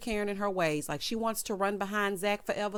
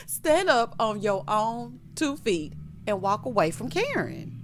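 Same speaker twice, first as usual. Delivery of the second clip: slow, loud mock exhortation; emphatic rallying cry; 3 semitones higher, 4 dB louder, slower than usual. Recapper urging Aaron to leave Karen, loud mock exhortation.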